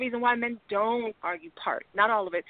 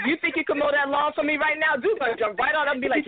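sweet coaxing wife; 5 semitones higher than usual. Retold or imitated. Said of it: "sweet request to the man".

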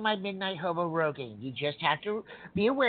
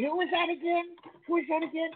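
feigned forgetfulness; 10 semitones higher, faster than usual. Pretend.

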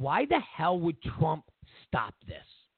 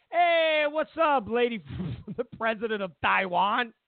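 mock Trump greeting; 3 semitones higher than usual. Trump greeting the Taiwan president, high breezy voice. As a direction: greet her like an old buddy. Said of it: "quoted Trump greeting".

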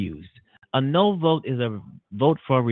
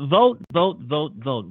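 emphatic urging; slower than usual. Acted. Urging listeners to vote.

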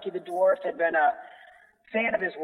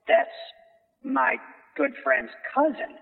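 surprised; 2 semitones lower, much slower than usual. Retold or imitated. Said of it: "I was like".

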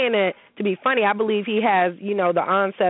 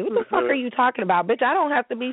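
indignant comeback; 5 semitones higher than usual. Retold or imitated. Indignant comeback to his insult.

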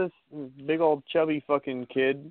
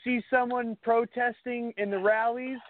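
Trump impression; 6 semitones higher than usual. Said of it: "Trump said".

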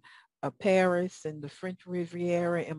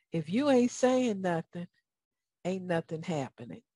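Southern accent. Shown as a demonstration. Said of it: "That's my Southern accent".

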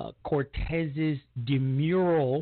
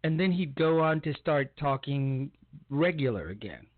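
ordinary delivery

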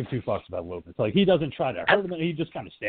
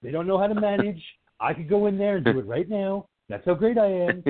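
higher-pitched mock boastful complaint; Donald Trump; 5 semitones higher than usual. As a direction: lightly imitate a bragging, micromanaging politician. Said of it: "Trump would have been all over Michael Myers".

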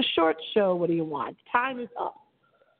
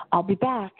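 signature tagline. Retold or imitated. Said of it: "I end my show every night with".

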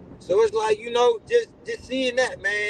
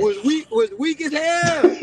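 laughing; 5 semitones higher, 4 dB louder, slower than usual. Real, not acted. Laughing about his kids.

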